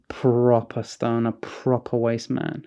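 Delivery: slow, soft, low under the breath; low muttered repeat. Retold or imitated. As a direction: mutter it dryly to a friend. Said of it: "he repeated".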